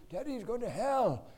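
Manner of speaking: put-on half-yell an order like a small boy; little son telling a smoker off; a touch of shrieking. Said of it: "he had a shrieking voice".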